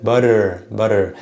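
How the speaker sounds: "butter" with T as a quick tap; tapped "ra" sound. Shown as a demonstration. Teacher points out the ra sound, American tapped T. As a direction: say "butter" American-style, flicked T. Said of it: "That ra sound over there".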